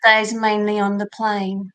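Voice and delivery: Cockney model line; Cockney accent. Shown as a demonstration. Coach correcting the student, Cockney accent. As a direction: show how a Cockney says it. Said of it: "try it in a Cockney".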